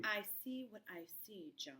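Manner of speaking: unvoiced bitter whisper; hushed retort to husband. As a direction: hiss it under the breath.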